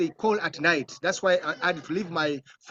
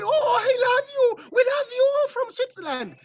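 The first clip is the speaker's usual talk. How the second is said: high, loud sobbing declaration; crying fan; 4 dB louder than usual. Retold or imitated. Swiss fan crying to the director, high loud sobbing. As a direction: cry it out with overwhelming love. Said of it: "the guy started crying and said".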